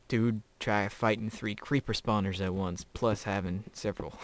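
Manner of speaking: put-on light southern accent, a touch of it. Telling his brother about creeper spawners, light southern accent. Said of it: "Sorry for going into a southern accent".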